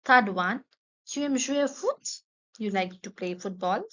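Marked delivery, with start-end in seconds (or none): 1.0-2.2 higher throughout, "Tu aimes jouer au foot?" with a rising end; lively teacher question; high model question. Shown as a demonstration. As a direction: ask it brightly to the class. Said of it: "teacher models question then repeats".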